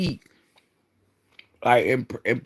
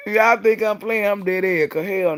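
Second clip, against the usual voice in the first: incredulous; 8 semitones higher, 4 dB louder than usual. Real, not acted. Incredulous to viewers.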